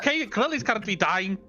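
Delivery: high, exasperated reminder; impatient urgency. Acted. Player reminds the family Grill is dying, impatient. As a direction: press the point in a high voice. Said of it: "and I'm like".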